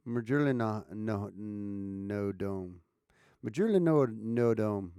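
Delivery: "Majorly no dome" as a slurred Aussie "usually not home"; loose-jawed practice of "Majorly no dome"; relaxed-jaw Aussie pronunciation. Shown as a demonstration. Streamer practises an Aussie phrase, "Majorly no dome" with relaxed jaw. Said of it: "I'm trying to relax the jaw".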